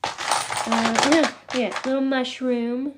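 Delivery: a slow, lightly voiced alien coo; channeling the green alien. Channeling the green alien while showing her crystals, a lightly put-on alien coo. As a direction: ease into the alien's voice, drawing it out. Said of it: "I've gotta channel that guy".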